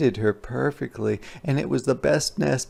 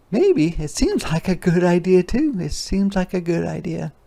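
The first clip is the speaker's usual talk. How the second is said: hopeful maybe; 6 semitones higher, 3 dB louder than usual. Acted. Teller wonders hopefully.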